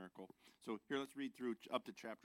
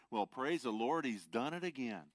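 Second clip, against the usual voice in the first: joyful shout; 3 semitones higher, 5 dB louder than usual. Acted. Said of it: "And Lester shouted".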